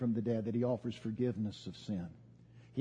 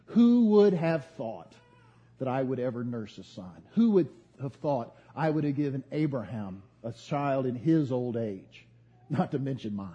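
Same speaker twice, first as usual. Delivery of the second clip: amazed Sarah; 4 dB louder than usual. Acted. Sarah marvels, louder.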